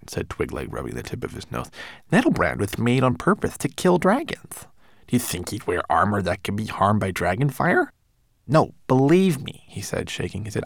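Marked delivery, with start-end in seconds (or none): 2.1-7.9 fussy tiny homunculus. Acted. Twigleg speaks. 8.5-9.6 high little manservant voice; fussy tiny homunculus. Acted. Twigleg speaks.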